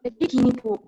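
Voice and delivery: glitchy robot-like mic; robotic choppy audio. Real, not acted. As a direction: voice breaking up on a bad line. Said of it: "Iya, agak putus-putus gitu".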